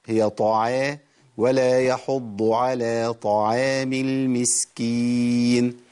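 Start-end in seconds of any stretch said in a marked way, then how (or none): 1.4-5.8 طعام recited slowly with a thin, light ain, chanted; slow correct recitation with a light ain; correct recitation demo. Shown as a demonstration. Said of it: "العين هنا مرققة".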